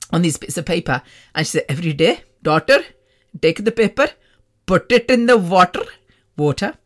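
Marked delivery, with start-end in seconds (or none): 1.7-5.4 mock healer instructions in South Asian accent; put-on South Asian accent. Woman healer instructing a daughter on ritual, South Asian accent. 5.4-5.8 put-on South Asian accent. Healer telling daughter about paper ritual, South Asian accented "water". Accented word, then said usual way.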